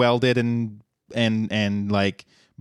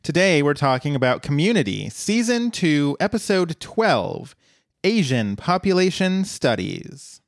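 announcer voice; 3 semitones higher than usual. Acted. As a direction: build it up like a radio host. Announcer-style intro.

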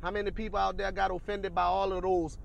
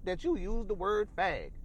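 slow, higher-pitched mock complaint; mock offended; 4 semitones higher than usual. Imitating people who object to words, mock offended. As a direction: draw out each grievance, imitating the easily offended. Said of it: "listen to people and say".

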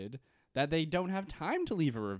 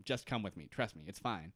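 hushed Juliet; 6 semitones lower, 7 dB quieter than usual. Retold or imitated. Juliet reassuring Sun quietly.

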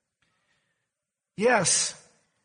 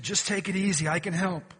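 calm soothing; 4 semitones lower, 3 dB quieter than usual. Retold or imitated. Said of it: "in a calm and soothing voice".

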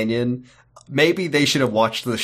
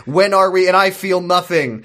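dramatic quote; 5 semitones higher, 4 dB louder than usual. Retold or imitated. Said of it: "And more importantly".

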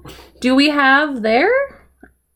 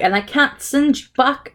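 higher, hammed-up British accent; put-on British accent; 4 semitones higher than usual. Sorcerer explains to the kids, put-on British accent. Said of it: "why I'm doing the accent".

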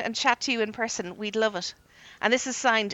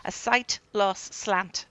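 slowly, word by word; slow careful reading; 2 semitones lower, much slower than usual. Shown as a demonstration. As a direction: spell out the tongue twister slowly. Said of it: "Try saying that three times fast".

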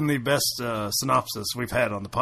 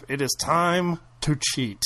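mock dramatic line; slower than usual. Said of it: "a shot of the husband".

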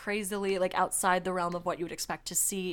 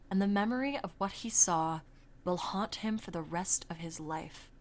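dramatic article reading; 4 dB quieter than usual. Acted. Reads old news article aloud.

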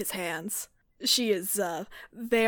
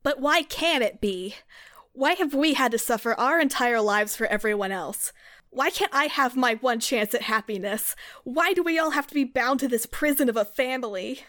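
angry outburst; 3 semitones higher than usual. Acted. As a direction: push back hard, pleading and bitter. Gale's angry outburst at family.

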